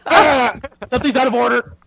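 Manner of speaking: hammed-up fussy roommate; mock Scoots. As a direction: play the fussy neat roommate. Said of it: "and goes".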